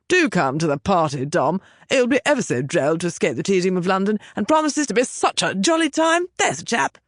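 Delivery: put-on lampoon an upper-class English patrician accent; affected patrician accent. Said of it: "With an exaggeratedly affected patrician accent".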